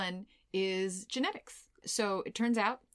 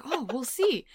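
higher-pitched mock put-off; mimicked noncommittal tone; 6 semitones higher, 3 dB louder, slower than usual. Mimicking a partner dodging plans, mock noncommittal. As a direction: imitate a partner's evasive answer. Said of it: "You should hear my tone".

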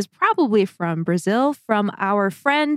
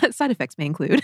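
mock ad disclaimer; 4 semitones lower, faster than usual. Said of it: "We could do a segment like".

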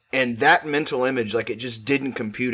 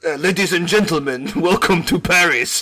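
hype announcer; 4 semitones higher, 7 dB louder than usual. Pretend. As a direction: announce it like a stage host. Mock announcer intro.

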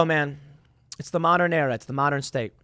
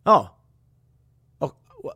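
mock surprise; 4 semitones higher, 4 dB louder than usual. Fake surprise at the headlines.

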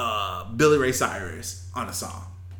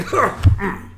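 imitated cough; 8 semitones higher, 6 dB louder than usual. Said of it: "He's like".

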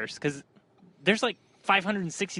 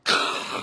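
zombie noise. Retold or imitated. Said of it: "the loudest, like, zombie noise".

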